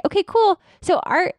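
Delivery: bright, upbeat scheduling voice; a chipper assistant booking the next visit; cheerful assistant script. Shown as a demonstration. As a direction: sell it like a friendly dental assistant. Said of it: "the assistants ... to say".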